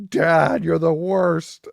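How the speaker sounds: hammed-up child's complaint; whiny kid yell. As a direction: bawl at dad like a spoiled kid. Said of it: "the son is equally nuts".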